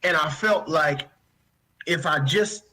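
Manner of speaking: fighting tears, pitch pushed up; holding back tears. Real, not acted. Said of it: "I'm trying not to cry".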